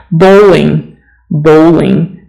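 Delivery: bowling with a long O as in go. Shown as a demonstration. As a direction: say bowling like bow-ling, not ball. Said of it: "Don't say bowling".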